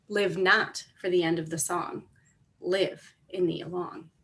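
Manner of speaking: measured reading, a pause after each line; poem recitation. Acted. Teacher reads Speech to the Young to students, measured poem recitation. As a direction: read the poem out deliberately, line by line.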